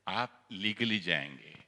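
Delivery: slow, even legally जाएंगे, said gently and firmly; steady the angry man down; calm advice. Retold or imitated. Didi calmly telling him to go legally, reassuring.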